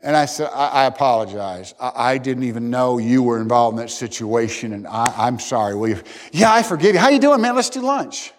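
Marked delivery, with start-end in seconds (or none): 0.5-6.0 lower, gentle, sincere sorry; humble apology. Retold or imitated. Preacher retells apologizing to his professor, low and humble. 6.3-8.3 high, hearty and bright; suddenly all friendly and upbeat; cheery forgiveness. Retold or imitated. Preacher voices the professor forgiving him, high and hearty.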